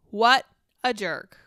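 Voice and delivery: loud, slow, disgusted verdict; disgusted outburst. Real, not acted. Host on stream, appalled by Hunter's one-word reply, loud and slow disgust. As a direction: spit out the insult, drawn out.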